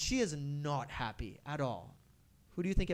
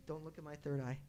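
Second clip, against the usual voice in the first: a hint of a shy, softer plea; 7 dB quieter than usual. Disguised Shiva begging Krishna not to look, softly shy. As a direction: hide it timidly under the veil. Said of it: "She just comes very shyly".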